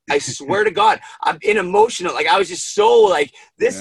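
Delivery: fighting back real tears; emotional, near tears. Real, not acted. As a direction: voice cracking, breaking into a high squeak. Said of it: "I'm gonna start crying again".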